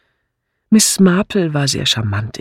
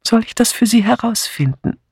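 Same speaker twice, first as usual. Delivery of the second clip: put-on higher, friendly offer of an old lady; 9 semitones higher than usual. A narrator's reading. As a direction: ask it kindly in a raised voice. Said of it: "fragte Miss Marple freundlich". (freundlich fragend, hohe Stimme)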